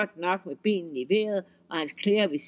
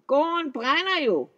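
high, loud and slow troll cry; alarmed troll; 8 semitones higher, 4 dB louder than usual. A narrator's reading. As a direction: wail that the farm is burning. Troll sees farm burning.

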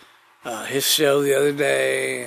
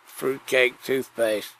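slow careful retry; slower than usual. Shown as a demonstration. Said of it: "is that how you say it".

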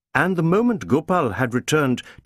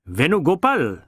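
barked. A narrator's reading. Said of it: "he barked out".

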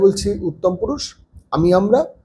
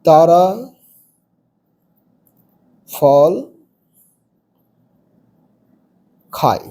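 one word at a time with long gaps, voice dropping lower; slow dictation; 3 semitones lower, slower than usual. Shown as a demonstration. Teacher dictating to pupils, slow and falling word by word. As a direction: spell it out slowly so children can write. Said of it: "চার নম্বরে তুমি".

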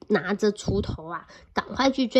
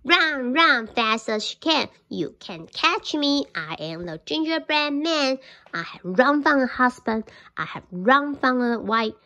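cheeky gingerbread taunt. Acted. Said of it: "and said".

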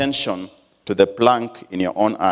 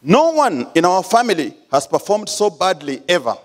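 retold shout; 5 semitones higher than usual. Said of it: "I shouted".

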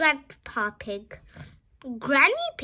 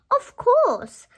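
smiling; 8 semitones higher, 6 dB louder than usual. Acted. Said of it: "smiles Mummy Pig".

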